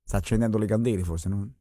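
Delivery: low, hushed aside. Real, not acted. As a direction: hush it for the ritual. Host hushed during silence ritual.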